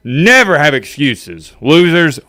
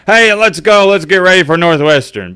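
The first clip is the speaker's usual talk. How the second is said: mock cheery tweet; 6 semitones higher than usual. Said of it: "tweeting about".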